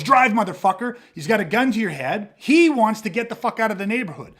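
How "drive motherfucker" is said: barked carjacker order. Retold or imitated. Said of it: "jumps in the car and goes".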